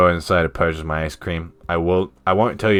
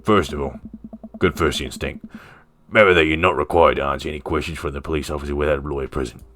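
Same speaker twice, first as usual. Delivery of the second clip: lightly voiced Australian man; Robert, Aussie accent; 2 semitones lower than usual. Robert advises Ernest about the police, light Australian accent. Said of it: "He was Aussie, right?".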